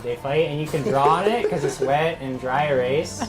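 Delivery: put-on slurred, rambling drunk voice; town drunk voice. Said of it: "Is he drunk or high?".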